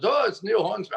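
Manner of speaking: high-pitched mock British accent; badly faked British accent; Neil Hornsby's British accent. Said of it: "with this British accent".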